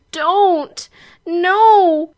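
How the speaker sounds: high, loud outburst; blurted cry. Acted. Heroine trying to ask him to stop, blurted loudly. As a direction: blurt each word out in alarm, high. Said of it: "incoherently blurt out".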